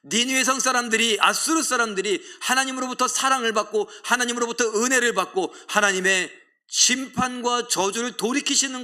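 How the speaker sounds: high, loud, heated protest; indignant outcry. Acted. Jonah rails at God, high and loud. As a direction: Jonah shouting his grievance at God. Jonah's outburst voiced by preacher.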